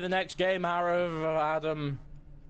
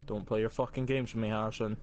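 menacing voice; 9 semitones lower, faster than usual. Pretend. Mock threatening low voice.

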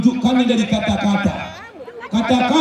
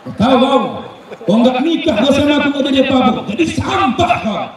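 higher, fast mocking snarl at the wife; husband insulting his wife in a higher, fast voice; angry husband insult; 4 semitones higher than usual. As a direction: sneer it like a bullying husband. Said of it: "Laki-laki kalau marah mulutnya seperti itu".

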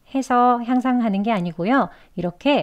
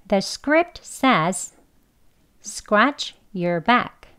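very slow, every sound of script and scratch said; slow book pronunciation; much slower than usual. Shown as a demonstration. Teacher reads the textbook pronunciation slowly to the students. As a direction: read it slowly and fully. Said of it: "천천히 책 발음 두 번".

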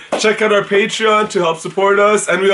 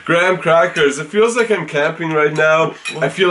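talking while chewing. Real, not acted. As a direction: mouth partly full. Seen 1: Both men eat cereal throughout; speaker unclear, mouths appear chewing.

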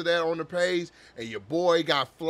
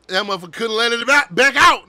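breathless laughing squeal; laughing hard; 5 semitones higher, 9 dB louder than usual. Real, not acted. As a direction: laugh through the words. Cracking up retelling the gasp.

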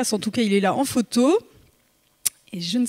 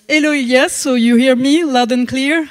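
careful French-accented English, a touch louder; 2 semitones higher, 6 dB louder than usual. Real, not acted. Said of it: "Vous allez excuser d'avance, euh, mon accent".

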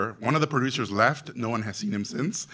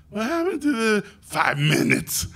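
panicked disbelief; 10 semitones higher than usual. Retold or imitated. Panicked at the cut time.

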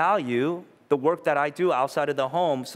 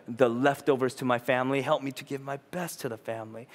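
soft, lower earnest prayer; quiet prayer; 3 semitones lower than usual. Retold or imitated. Pastor retelling his prayer before entering home, soft and earnest. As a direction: pray it humbly under the breath. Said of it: "I pray every time".

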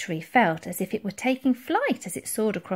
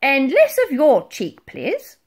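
loud, raised-pitch rebuke; stern admiral; 6 semitones higher, 8 dB louder, slower than usual. A narrator's reading. Admiral tells off the mammoth, stern. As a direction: tell them off loudly.

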